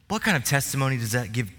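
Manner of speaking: normal talking voice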